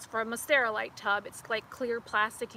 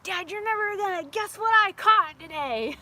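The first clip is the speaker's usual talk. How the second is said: put-on excited kid; 7 semitones higher, 6 dB louder than usual. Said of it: "I'm like".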